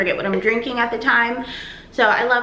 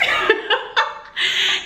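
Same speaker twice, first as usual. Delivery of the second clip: high giggle; 11 semitones higher than usual. Real, not acted. Laughs at her own quote.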